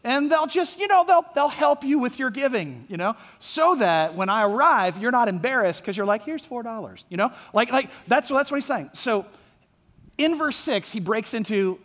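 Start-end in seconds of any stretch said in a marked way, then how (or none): 0.0-7.0 mock-helpful offer, lightly sarcastic; breezy, tongue-in-cheek reassurance. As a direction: imitate Paul needling them with feigned helpfulness. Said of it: "he's very sarcastic in the first five verses".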